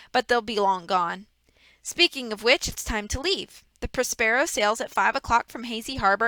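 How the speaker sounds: a hint of a smug, fake-sorry villain; lightly voiced villain. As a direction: play the false grief of a schemer. Reader voices villain Stefano.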